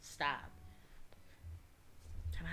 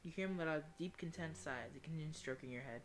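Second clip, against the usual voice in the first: lower, measured reading voice; story narration; 3 semitones lower, 10 dB quieter than usual. A narrator's reading. Player reading a tender game scene, story narration.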